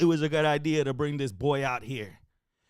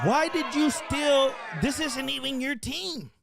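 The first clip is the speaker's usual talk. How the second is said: disbelieving shout; 7 semitones higher, slower than usual. Retold or imitated. Teammate yells at the runner who cost them the game. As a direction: shout the question slowly at the fool.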